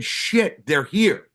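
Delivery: a sudden high burst of delighted surprise; surprised. Retold or imitated. Telling the listener the radio hosts are right there, in retold excited surprise. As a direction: pop up in pitch like you just realized.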